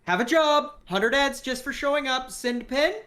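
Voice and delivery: high, terse phone voice; clipped nervous caller. Acted. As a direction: speak in short nervous bursts. Hank terse job offer.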